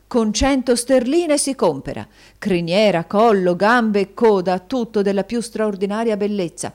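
loud, punched list of features; eager, emphatic husband; enthusiastic sales pitch. A narrator's reading. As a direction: rave about each part in turn. Husband enthusing over a horse.

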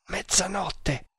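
soft, slow, choked-back utterance; strangled, hushed and drawn out; stifled voice. A narrator's reading. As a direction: say it high and smothered. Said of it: "disse con voce soffocata".

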